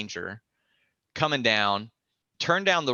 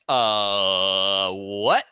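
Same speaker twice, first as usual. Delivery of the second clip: louder, lower, disbelieving; mock shock; stunned; 4 semitones lower, 6 dB louder than usual. Him hearing the accusation, stunned. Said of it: "And I'm like".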